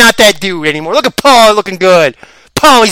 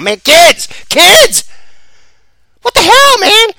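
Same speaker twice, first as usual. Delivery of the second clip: outraged; 12 semitones higher, much slower than usual. Real, not acted. Outraged at school shooting.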